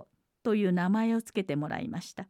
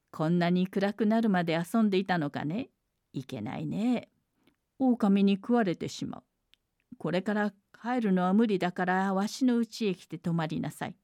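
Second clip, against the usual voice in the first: kindly. Acted. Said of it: "優しそうに声をかけました".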